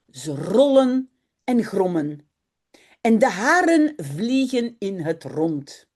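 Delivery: put-on storybook reading for young learners, clear and paced; reading to children. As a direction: read the story like a teacher to a class. Reads Dutch children's story aloud.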